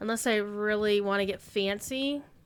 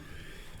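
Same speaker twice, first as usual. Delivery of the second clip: yawn; 14 dB quieter than usual. Real, not acted. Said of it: "why I'm yawning".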